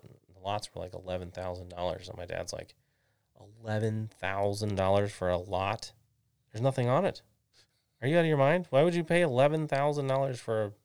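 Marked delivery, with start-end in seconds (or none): 3.6-5.9 mildly incredulous question, rising at the end; incredulous dad. Retold or imitated. Dad reacting to his child's lot idea, incredulous. Acts out dad balking at price. 6.5-10.7 loud, higher-pitched imitation of a scolding dad; outraged dad. Dad arguing against buying a bare lot, outraged.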